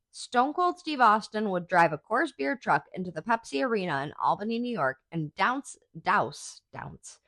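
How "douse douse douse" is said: tongue-tied repeats. Real, not acted. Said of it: "I can talk".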